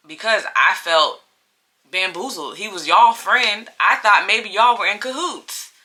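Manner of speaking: retold aggrieved explanation; indignant protest. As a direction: defend yourself emphatically, pitch climbing toward the end. Retold protest to his friends.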